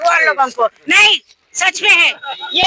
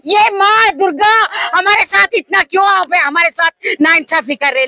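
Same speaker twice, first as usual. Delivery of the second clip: retold tearful plea. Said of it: "सिसक सिसक के रो चुके थे".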